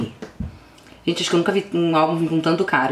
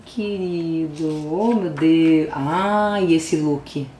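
ordinary talk, nothing marked

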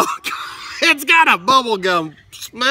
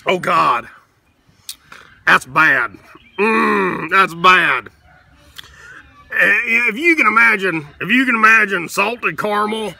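Hotep character voice. Acted. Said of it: "I'm gonna break character".

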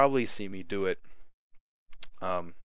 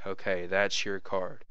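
too slow; slower than usual. Shown as a demonstration. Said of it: "you don't wanna go slow with it".

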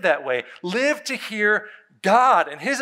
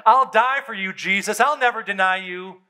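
boastful vow, raised in pitch and volume; Peter; 3 semitones higher than usual. Retold or imitated. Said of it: "he boastfully said".

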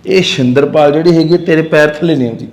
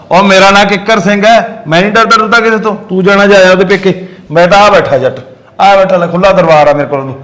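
boastful; 4 semitones higher than usual. Acted. Husband boasts he fears nobody.

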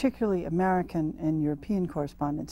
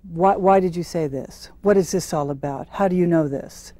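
louder, stern imitation of an interrogator; stern questioning; 6 dB louder than usual. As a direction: retell it as pointed official questioning. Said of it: "very sternly look at you and say".

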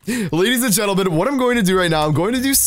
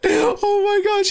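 high laughing disbelief; 12 semitones higher than usual. Real, not acted. Laughing at victim's owie.

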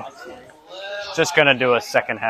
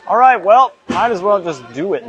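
nervous; 6 semitones higher, 4 dB louder than usual. Real, not acted. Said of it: "so I'm very scared".

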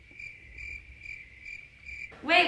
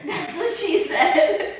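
laughing joke; 3 semitones lower, much slower than usual. Real, not acted.

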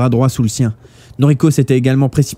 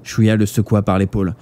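ordinary delivery, nothing marked

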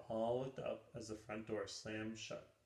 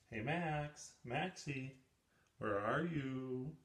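calling out; 3 semitones higher, 4 dB louder, slower than usual. Acted. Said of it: "called Brody".

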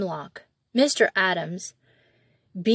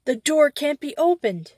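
groaning; 6 semitones higher than usual. A narrator's reading. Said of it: "he groaned".

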